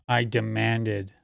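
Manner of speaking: DEMANDED slowly drawn out; mocking emphasis. Streamer mocking how critics make them sound authoritarian, slowly emphasized. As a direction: stretch "demanded" with understated mockery. Mocking the word put on speaker.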